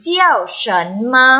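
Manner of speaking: measured syllables for learners to repeat; read-after-me model. Shown as a demonstration. Teacher leads students reading Chinese after her, measured model reading. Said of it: "อ่านตามค่ะ".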